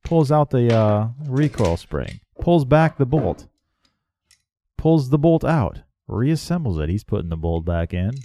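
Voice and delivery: hushed golf commentary, lightly done; golf announcer. Acted. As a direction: murmur it like a TV golf broadcaster. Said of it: "golf announcer voice".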